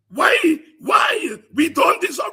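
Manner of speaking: loud high anguished why; a wailing brother's loud lament. Retold or imitated. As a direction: cry out the injustice. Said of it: "here was his brother wailing".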